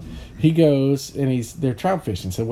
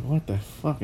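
muttered disbelief; 6 dB quieter, slower than usual. Retold or imitated. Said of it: "He's like".

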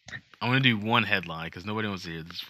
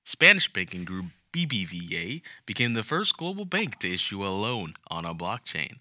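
newscaster voice. Pretend. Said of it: "I wanna try one of those newscaster voices".

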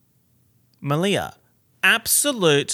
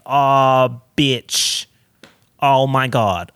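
exclaiming; 8 dB louder, much slower than usual. Real, not acted. Dramatic outburst about her hair.

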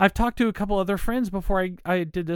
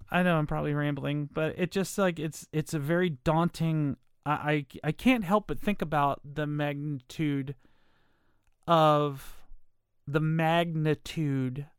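lisping slightly around dental aligners; talking with aligners in; 3 semitones lower than usual. Real, not acted. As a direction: speak through clear aligners. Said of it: "Trying to talk with these aligners on".

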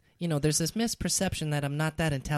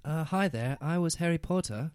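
Daniel Radcliffe. Acted. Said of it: "Daniel Radcliffe, please".

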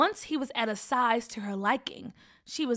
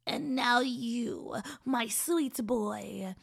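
sickly sweet; much slower than usual. Acted. Witch sweet-talks the boy.

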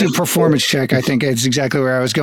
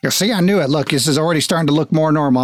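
self-convinced papa; faster than usual. Acted. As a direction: reassure yourself quickly that you were right. Father again, reassuring himself.

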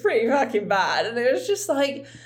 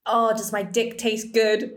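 breathy whispered come-on, mocking him; whispered sleazy lover impression; slower than usual. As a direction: hush it like a cheesy bedroom line. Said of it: "when he would say things like".

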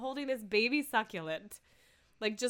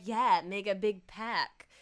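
Mike; 4 dB louder than usual. Retold or imitated. Man trying to role play for his partner, lightly put-on voice. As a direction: imitate a clumsy attempt at playing a part. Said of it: "When Mike's trying to be like".

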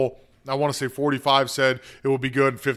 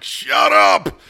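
a louder, sharper shut up from the embarrassed mom; mom hushing her; 3 semitones higher, 7 dB louder than usual. Retold or imitated. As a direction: hush the kid fast, half-loud. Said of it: "her mom's like".

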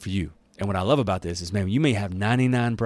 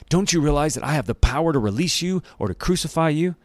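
indignant Pilate; 7 semitones higher, 3 dB louder than usual. A narrator's reading. Pilate asserting power over Jesus.

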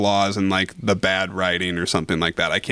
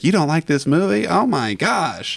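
higher-pitched, drawn-out mock outrage; mock disbelief; 7 semitones higher than usual. Imitating people who can't stand someone disliking the movie, mock disbelief. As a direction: imitate appalled movie fans, stretching it out. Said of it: "I see people where they're like".

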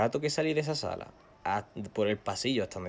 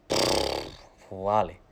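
drugged; 2 semitones lower, much slower than usual. Retold or imitated. Drugged reply to the doctor.

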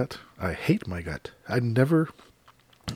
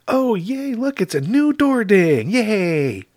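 much higher, louder, fake-delighted squeal; sarcastic sing-song yay; sarcastic mock cheer; 12 semitones higher, 5 dB louder, slower than usual. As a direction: gush over the dent in fake joy.

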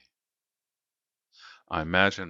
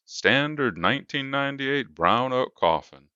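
salesman voice; 6 semitones higher than usual. A narrator's reading. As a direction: sell it like a slick salesman. Salesman voice again.

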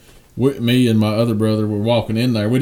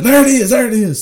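high urgent there it is; excited shout; 13 semitones higher, 5 dB louder than usual. Retold or imitated. Brother shouting as the bear comes up. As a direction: yelp it as the bear appears.

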